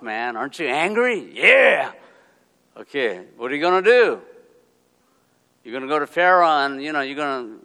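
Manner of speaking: God as an overexcited coach, mock; mock pep talk. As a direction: hype him up like a cheerleader. Mock God cheering Moses on.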